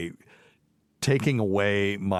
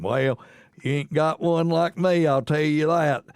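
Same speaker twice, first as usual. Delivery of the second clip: hick Appalachian accent; 8 semitones higher, 5 dB louder than usual. Shown as a demonstration. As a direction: lay on a broad mountain North Carolina twang. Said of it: "that's how I sounded".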